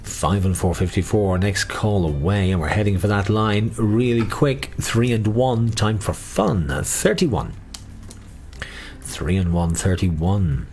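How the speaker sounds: sing-song number calling; bingo caller. Acted. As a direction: lilt each number like a bingo hall.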